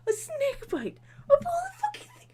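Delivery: high, loud laughing outburst; laughing disbelief. Real, not acted. Mocking the snake bite plot to viewers, laughing outburst. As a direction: crack up mid-sentence.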